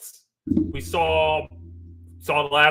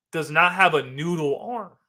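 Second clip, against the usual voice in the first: voice cracking. Real, not acted. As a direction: voice cracks mid-sentence. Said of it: "Voice cracked again".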